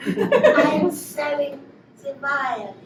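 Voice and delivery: put-on slow French-accented violet seller; hammed-up French flower girl. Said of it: "with an actual French accent".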